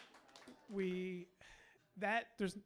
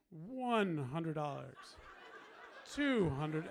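slow counting like the Sesame Street Count, laughing; mock Count counting money, louder, through laughter; 4 dB louder, much slower than usual. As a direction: count out the bills like the Count, half laughing. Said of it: "like the Count on Sesame Street".

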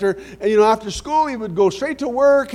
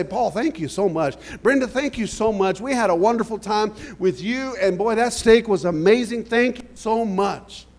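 earnest thanks; 2 semitones lower than usual. Shown as a demonstration. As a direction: gush your gratitude sincerely. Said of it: "we're very careful to say".

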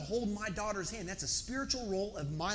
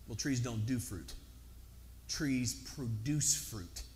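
mock objection; 8 semitones lower, 5 dB quieter, slower than usual. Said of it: "You would look at me and say".

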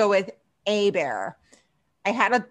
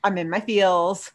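tipsy. Real, not acted. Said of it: "I'm a little tipsy".

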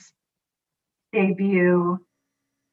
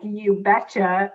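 slow, drawn-out You betcha; slow cheerful quote; slower than usual. Retold or imitated. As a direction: stretch out You betcha like a sweet, girly reply. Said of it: "Phoebe's just like".

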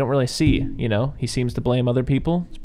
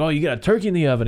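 quick, higher-pitched mocking retort; imitating scornful Paulie; 4 semitones higher, faster than usual. Quoting Paulie snapping back at her about dinner, mock scorn. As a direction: throw it back fast, mockingly. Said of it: "He's like".

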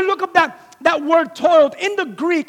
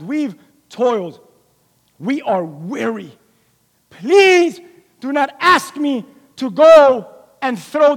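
slow, tired plea to the Lord; weary pleading; 3 semitones lower, slower than usual. Acted. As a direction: beg not to cast the nets again. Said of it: "he's like".

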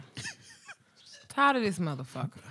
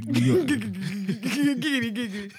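Quagmire catchphrase; 3 semitones higher, 5 dB louder, much slower than usual. Retold or imitated. Catchphrase impression.

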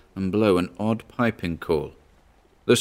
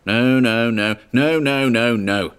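louder, higher repeated no's; desperate refusal; 4 semitones higher, 4 dB louder than usual. Acted. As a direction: refuse over and over in rising panic. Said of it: "said Charteris".

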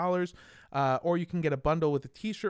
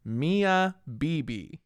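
slow, plummy British "Mia Bibi", vowels drawn out; posh English drawl on "Mia Bibi"; snooty British accent; much slower than usual. Pretend. Host doing the sponsor's name in a snooty British accent. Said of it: "snootiest British accent possible".

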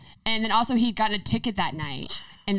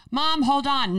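higher, louder urgent plea through the door; pleading with mom; 7 semitones higher, 4 dB louder, slower than usual. Retold or imitated. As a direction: beg her to wait, a bit frantic. Teen begging mom at door.

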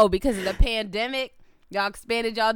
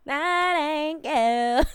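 slow mock disapproval; 7 semitones higher, much slower than usual.

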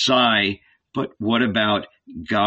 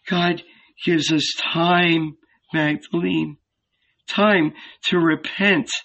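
certain; 5 semitones higher than usual. A narrator's reading. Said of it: "replied with certainty".

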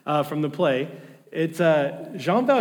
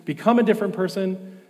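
ex-convict grumbling, loud and raised; angry Valjean; 3 semitones higher, 6 dB louder than usual. Retold or imitated. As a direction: voice the thief's resentment. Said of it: "he gets angry about this".

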